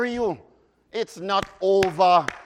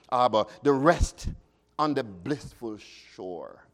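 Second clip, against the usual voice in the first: calm recited hymn verse, fading lower; hymn recitation; 3 semitones lower than usual. Acted. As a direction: settle into the peaceful hymn ending.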